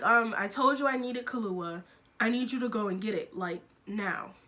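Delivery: retold impatient attitude, mildly acted; emphatic, fed-up telling-off in retelling; giving attitude. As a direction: give a coworker some measured attitude. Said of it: "I gave him attitude".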